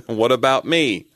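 a hint of a robotic assistant voice; lightly voiced phone assistant, a bit hurt; mock Siri whining to its owner. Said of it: "That's my Siri voice".

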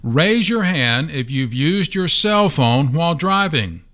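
slow, teasing audience prompt; playful prompt. Acted. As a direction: coax listeners with a playful ask. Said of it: "podcast interaction for you".

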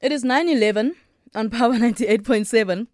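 talking with food in mouth; mouth full. Real, not acted. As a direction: speak around a mouthful of food. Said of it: "I've got food in my mouth".

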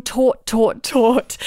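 "taut" stretched and pressed each time; stressed repetition. Retold or imitated. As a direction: lean on each "taut" like pulling elastic. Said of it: "At one point she said".

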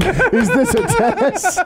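slow Fight Club guy. Retold or imitated.

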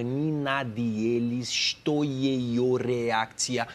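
Russian sounded out very slowly; drawn-out phonetic Russian, with breaks; slowed-down dictation. Retold or imitated. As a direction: spell it out syllable by syllable, slowly. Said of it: "Fala devagar pra mim".

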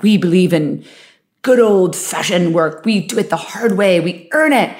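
lightly imitated old-fashioned advert voiceover; a hint of an earnest ad slogan read; commercial slogan. Podcaster quoting a commercial about hard work, light advert voice. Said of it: "What is that commercial where they're like".

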